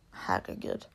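whispered herregud. Real, not acted. Exasperated aside to listeners.

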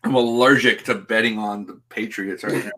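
laughing through hiccups. Real, not acted. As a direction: hiccups breaking the words. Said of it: "I have the hiccups right now".

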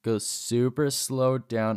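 drawn out slowly, like a turtle; slow turtle pace. Shown as a demonstration. Showing friends how he crept his head down, slowly. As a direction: ease each word out slowly. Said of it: "do this turtle thing".

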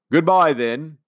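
calling goodbye. A narrator's reading. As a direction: call farewell after them. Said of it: "he called".

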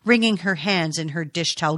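ordinary delivery, nothing marked

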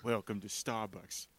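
lightly put-on New York accent. Costumed barista greeting a Starbucks customer, mock New York accent. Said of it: "has a New York accent for some reason".

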